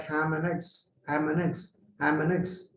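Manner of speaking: "ham and eggs" run together as two words; squeezed together. Shown as a demonstration. Teacher showing ham and eggs squeezed into two words, run together. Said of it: "is squeezed into two words like".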